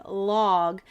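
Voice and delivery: "log" blended smoothly into one word; teacher blending "log" as a whole; one continuous sound. Shown as a demonstration. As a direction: run the sounds of "log" together, slightly drawn out. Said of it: "continuous sound".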